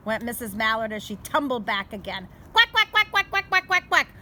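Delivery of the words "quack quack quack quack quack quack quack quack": high, loud string of little quacks; ducklings quacking. Acted.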